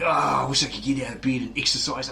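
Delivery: lazy breathy whining whisper; whiny whisper. Retold or imitated. Mocking a lazy person in bed.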